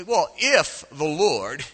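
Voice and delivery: slow, drawn-out sarcasm; Gideon, sarcastic. Acted. Gideon answering the visitor, slow sarcastic doubt. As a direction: stretch it out with dripping sarcasm. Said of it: "hear the sarcasm dripping out of his voice".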